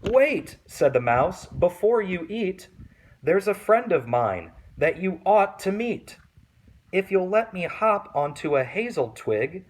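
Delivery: high, loud, urgent little mouse voice; a tiny mouse talking fast to save itself. Acted. Mouse stopping the child from eating it, high and urgent.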